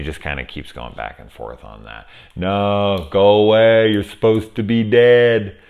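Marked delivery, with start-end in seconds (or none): 2.4-5.6 louder, higher acted outburst; protesting loudly in a quoted role; loud movie-line quote. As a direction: call it out like a dramatic film line.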